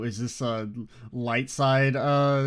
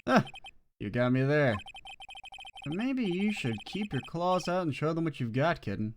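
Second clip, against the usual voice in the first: cool mentor voice; 2 semitones higher than usual. Acted. Voices Godot.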